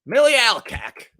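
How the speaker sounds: slow careful Millie Alcock; testing the pronunciation; trying the name. Shown as a demonstration. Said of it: "saying it very wrong".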